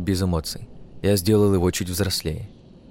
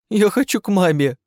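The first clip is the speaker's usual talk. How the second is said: put-on high, tearful wail of a small boy; a frightened child breaking into tears; crying child; 12 semitones higher, 4 dB louder than usual. A narrator's reading. The elf boy cries for his mother, high tearful wail. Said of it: "Он заплакал".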